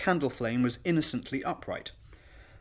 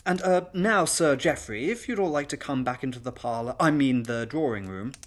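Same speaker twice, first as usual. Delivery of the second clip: flustered hostess, starting higher and louder; nervous; 3 semitones higher, 4 dB louder than usual. Acted. Mistress ushers guests back, nervous and flustered. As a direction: fumble politely through the invitation. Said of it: "now a trembling bouquet of nerves".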